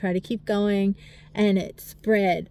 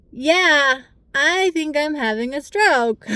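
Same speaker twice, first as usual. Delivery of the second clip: higher, louder, urgent insistence; retold alarm; 6 semitones higher, 4 dB louder, slower than usual. Telling her husband she thinks it's a stroke, urgently alarmed. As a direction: make him believe it's serious.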